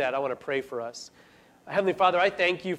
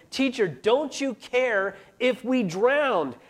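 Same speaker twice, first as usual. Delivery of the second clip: higher, slow pleading cry for help; desperate cry; 5 semitones higher, slower than usual. Retold or imitated. Disciples crying out to Jesus, slow and pleading. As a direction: plead like a frightened disciple in the storm. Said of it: "the disciples are crying out to Jesus".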